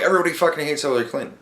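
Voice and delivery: "Everybody fucking hates Hillary Clinton" rattled off very fast; rushed retelling. Retold or imitated. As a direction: blurt the whole line out quickly, words tumbling. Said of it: "I'm like".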